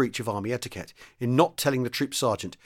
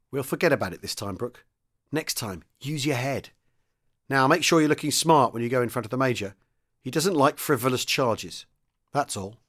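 more kindly. Acted. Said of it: "Then he said more kindly".

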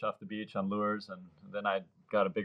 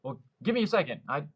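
determined excitement; 8 semitones higher than usual. Retold or imitated. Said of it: "And I was like".

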